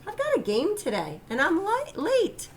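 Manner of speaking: high, loud, hurried shout; yelled back. A narrator's reading. Michael yelling back to Daddy that he's late. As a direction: call back over your shoulder while running. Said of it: "Michael yelled back".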